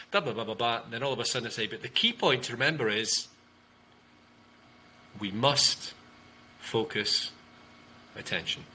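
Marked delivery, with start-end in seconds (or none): 1.7-8.6 long gaps before "must", "focus" and "attention", stepping downward; pauses, downward command. Shown as a demonstration. Coach demonstrating a key point to listeners, paused downward command. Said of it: "you can use a pause".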